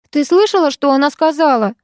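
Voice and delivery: outraged appeal to mother; indignant. Acted. Daughter appealing to her mother, mildly indignant. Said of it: "возмущённо проговорила я".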